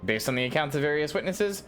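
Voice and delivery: lightly voiced leader briefing a recruit; formal commander. Lewin asking an adventurer to handle cultists, lightly acted formal briefing. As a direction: read it as a measured, slightly theatrical officer. Reads game character Lewin's dialogue.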